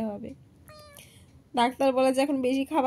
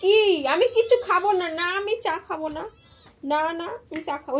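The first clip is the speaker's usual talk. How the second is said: mock pet voice, a bit higher; voicing the pet; 4 semitones higher than usual. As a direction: playfully answer for the pet. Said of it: "আমাকে বলছে". (পোষ্যের হয়ে মজা করে একটু চড়া গলায় বলা)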